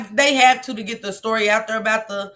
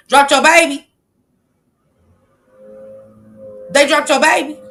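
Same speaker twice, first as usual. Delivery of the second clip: shocked question; 3 semitones higher, 6 dB louder than usual. Real, not acted. Shocked at chat comment.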